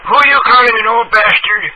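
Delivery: loud, high offended yell; outraged comeback; indignant shout. Real, not acted. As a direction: bristle and shout back. Victim fires back, offended.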